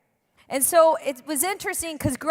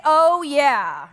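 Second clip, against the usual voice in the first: louder, punchy oh yeah for the crowd; eager oh yeah; 5 dB louder than usual. Shown as a demonstration. Pastor showing the crowd how to respond, eager. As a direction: model the response for them to copy. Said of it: "And just say".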